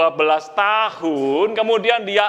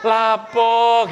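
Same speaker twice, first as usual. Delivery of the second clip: Javanese exclamation; slower than usual. Acted. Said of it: "gitu kan".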